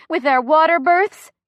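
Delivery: high, loud, rising strain; pained. A narrator's reading. Chrissy mid-contraction rants about other moms, pained. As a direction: force it out as the pain builds. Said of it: "Bigger moan".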